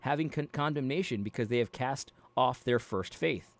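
measured, steady Bible reading voice; careful, even reading of scripture. Acted. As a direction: read the passage out like a lesson. Reads Bible passage aloud.

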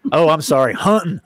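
apologetic hunting, said "huntn" with no T; hunting, T dropped. Pretend. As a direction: correct yourself to the Southern huntn. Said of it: "You can't pronounce a T in hunting".

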